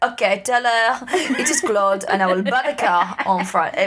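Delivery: a hint of a French accent, formal. Killer leaving a message with the dealer in mild French accent. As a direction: put on a light French lilt. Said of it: "he's like".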